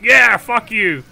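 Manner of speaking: loud, slow, gloating yell; mocking taunt. Orisa trash-talking the enemy team, loud gloating yell. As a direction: jeer at the enemy like a cocky bully. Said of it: "She's just like".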